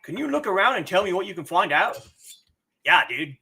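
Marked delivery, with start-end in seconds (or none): 2.8-3.4 surfer voice. Pretend. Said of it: "goes to a surfer voice".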